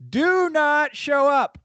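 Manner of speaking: slow, high, drawn-out dramatic plea; mock panic. Telling his brother by text not to come, in mock panic. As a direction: overdo the panicked warning, stretching every word. Texting buddy a panicked warning.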